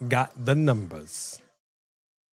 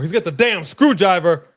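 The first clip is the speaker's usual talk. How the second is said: louder, stress on damn; emphatic repeat; 5 dB louder than usual. Real, not acted. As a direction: hammer the repeat home. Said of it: "louder repeat".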